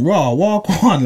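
high, startled reaction with a laugh; half-laughing alarmed what; shocked disbelief. Retold or imitated. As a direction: act out the shock of the news. Retold shock at hospital call.

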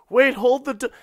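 high, loud shout for the door; mock panicked shout, cut off mid-word; calling out. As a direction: yell to hold the elevator. Someone running for elevator door.

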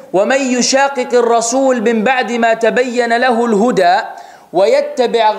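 fast, chanted Quranic recitation. Acted. Preacher recites the verse to his audience, chanted. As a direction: recite the verse in one flowing breath.

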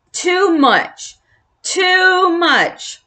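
put-on a rising, squeaky old-mouse rant; bellowing. A narrator's reading. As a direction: climb up in pitch with each repeat. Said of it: "he bellowed".

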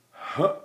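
short soft "huh", breath cut off; breath stop. Shown as a demonstration. Teacher showing a breath stop, short and checked. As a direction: catch the breath abruptly on a quiet grunt. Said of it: "called that a breath stop".

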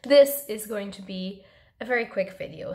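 hoarse, nearly voiceless; lost voice, straining to speak; raspy whisper. Real, not acted. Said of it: "because I have no voice".

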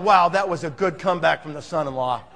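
low, soft thinking aloud; inner musing. Retold or imitated. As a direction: muse quietly as the impressed father-in-law. Father-in-law's inner musing.

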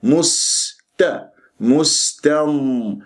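slow مستم with a clean s, then open ta; seen freed of rounding. Shown as a demonstration. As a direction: release the rounding before the t in مستم. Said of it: "لازم تخلص السين من أن تضم".

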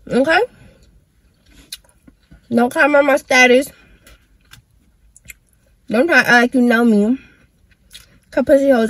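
sassy call-out. Real, not acted. Call-out rant at nosy followers.

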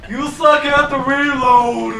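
loud teasing through laughter; mock him while laughing; laughing taunt. Real, not acted.

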